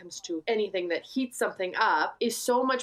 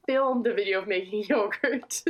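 laughing; 5 semitones higher than usual. Real, not acted. Laughing about her yogurt video.

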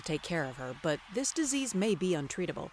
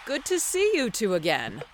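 startled stammer, then loud forced greeting; flustered; 4 semitones higher, 6 dB louder than usual. Acted. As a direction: stumble then cover it loudly. Lackey shocked, covers.

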